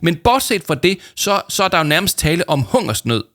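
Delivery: high, loud overly grave voice; hammed-up solemn complaint about hunger; very serious. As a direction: play starving melodrama with a straight face. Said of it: "sagde Paul meget alvorligt".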